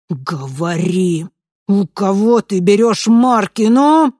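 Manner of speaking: loud demanding interrogation; menacing shout. A narrator's reading. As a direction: bark the demand. Killer interrogates terrified man.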